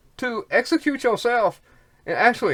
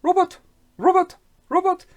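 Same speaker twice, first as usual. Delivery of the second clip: high, loud grandma calling out robot; imitating grandma calling out Robot; German grandma calling; 10 semitones higher, 5 dB louder than usual. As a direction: call him like an old German grandma. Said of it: "German grandma, she'd say".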